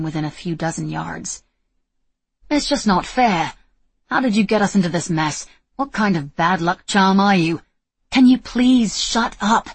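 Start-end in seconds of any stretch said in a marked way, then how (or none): 2.5-7.6 whining. Acted. Julian whining in panic. 8.1-9.7 loud, slow, sharp snap; snapped. Acted. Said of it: "she snapped".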